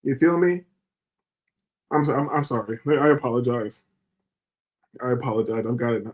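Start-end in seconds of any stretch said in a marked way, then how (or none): 1.9-6.1 calming apology. Real, not acted. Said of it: "I got a bit worked up".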